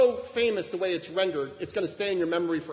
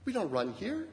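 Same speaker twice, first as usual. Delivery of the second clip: softer, kind correction with a smile; gentle, loving correction; 6 semitones higher, 6 dB quieter than usual. Acted. Pastor showing how to stop a running child kindly, soft and smiling. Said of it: "with a smile and with open arms".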